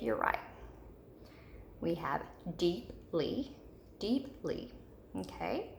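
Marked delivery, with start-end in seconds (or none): 2.6-4.7 "deeply" with a gap before the ly; split into syllables. Shown as a demonstration. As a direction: say deeply slowly in two separate syllables. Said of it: "Our syllable break is between this P and the L Y".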